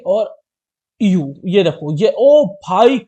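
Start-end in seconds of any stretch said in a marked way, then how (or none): 2.0-3.0 excited. Real, not acted. Delighted at own drawing.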